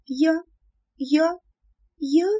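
high, halting stutter; stammer, lost for words. A narrator's reading. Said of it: "начала я, заикаясь". (заикаясь)

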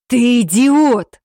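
loud, slow, high snarl of rage; furious bark. A narrator's reading. Alpha raging at his failed assistant, furious bark. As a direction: bark the insult with full fury. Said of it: "разъярённо рявкнул Альфа".

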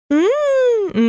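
высокое протяжное мычание-вздох; мечтательно промычи; мечтательный вздох «м-м-м». Acted. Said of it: "Наталья вздохнула". (Наталья мечтательно вздыхает о мужчине)

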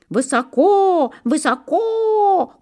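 high, slow clucking cry; hens clucking. A narrator's reading. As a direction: cluck it like a worried hen. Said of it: "кокали куры".

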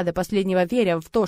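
ordinary delivery

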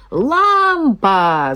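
high excited yell. Acted. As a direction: call out her name loudly. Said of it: "завопили двойняшки".

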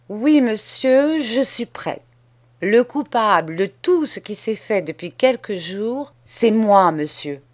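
put-on a boy laying out terms, steady and sure; bold schoolboy. Boy confesses calmly.

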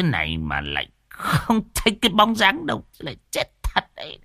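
put-on old man griping about his missing friend; grumbling old villager. Old man wonders aloud where Hồng went, griping. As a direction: complain half to yourself, then swing high in disbelief.

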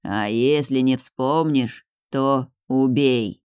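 low, slow, uncaring spirit; indifferent otherworldly voice. Acted. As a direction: say it coldly, without interest. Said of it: "равнодушно отозвался тот".

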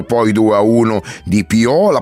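building excitement. Real, not acted. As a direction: pick up speed and pitch as the goals pile up. Recapping goals, building excitement.

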